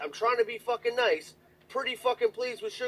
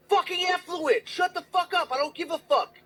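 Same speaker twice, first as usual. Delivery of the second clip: retold rant; 9 semitones higher than usual. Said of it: "I'm like".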